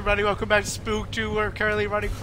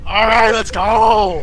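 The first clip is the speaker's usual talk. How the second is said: excited; 10 dB louder, slower than usual. Real, not acted. Rallying friends to start.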